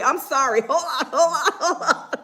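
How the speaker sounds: laughing apology. Real, not acted. Laughing fit mid read.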